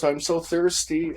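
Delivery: put-on little girl's plea. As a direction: imitate a weak child begging.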